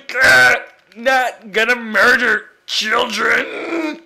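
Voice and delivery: slow growly villain voice; gruff character voice. Acted. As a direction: growl like a grumpy brute. Put-on voice about children.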